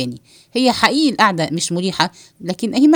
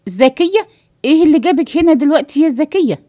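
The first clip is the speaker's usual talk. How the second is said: mild alarmed cry, pitched up; startled and frightened, raised but not a full scream; فزع; 4 semitones higher, 4 dB louder than usual. Acted. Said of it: "نوح صارخا في فزع". (صرخة فزع خفيفة)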